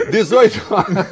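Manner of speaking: loud, cracking up; can't hold back the laugh; laughing through the words. Real, not acted. Third restart, laughing.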